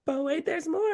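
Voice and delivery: cheesy TV pitchman; infomercial voice. Retold or imitated. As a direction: sell it like a late-night ad. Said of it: "Like an infomercial".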